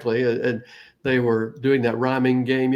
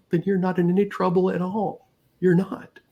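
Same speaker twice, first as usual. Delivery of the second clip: higher, gentle dad voice; reassuring dad; 6 semitones higher than usual. Retold or imitated. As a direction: soothe a worried little child. Dad reassuring his crying toddler.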